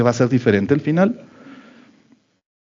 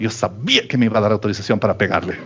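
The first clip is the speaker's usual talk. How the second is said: mock thought, laughing; 5 semitones lower, faster than usual. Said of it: "están pensando".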